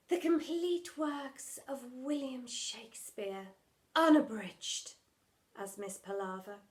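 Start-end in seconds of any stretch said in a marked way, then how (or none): 0.1-4.9 slow, grand theatrical declaiming; theatrical drama teacher. Acted. Drama teacher pitching her play, slow and grand. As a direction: announce it like a hammy stage star. Miss Palaver speaks.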